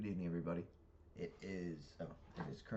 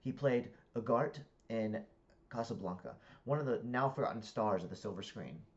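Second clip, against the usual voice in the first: lively, raised read-aloud voice; deliberate, projected book reading; story narration; 7 semitones higher, 9 dB louder than usual. A narrator's reading. Reader narrating a comic novel to listeners, animated narration.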